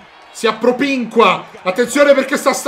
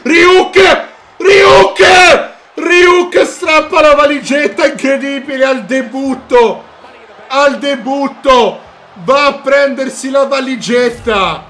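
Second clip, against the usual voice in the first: yelling the winner's name, much higher; victory scream commentary; 5 semitones higher, 8 dB louder, slower than usual. Real, not acted. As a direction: erupt as the winner grabs it. Ryuk wins the briefcase. (urlo di vittoria in telecronaca)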